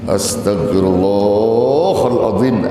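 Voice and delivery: slow, drawn-out exasperated istighfar; annoyed istighfar. Shown as a demonstration. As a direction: grind out Astagfirullahaladzim in irritation. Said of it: "ada kalimat istighfar kesel". (istighfar kesal, ditarik panjang)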